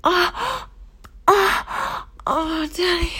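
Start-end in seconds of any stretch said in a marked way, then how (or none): none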